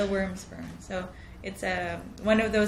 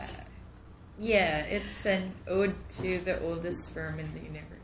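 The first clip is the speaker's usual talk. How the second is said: hushed, embarrassed whisper; 2 semitones lower, 10 dB quieter than usual. Real, not acted. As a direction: half-whisper the title sheepishly. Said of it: "Why are you whispering?".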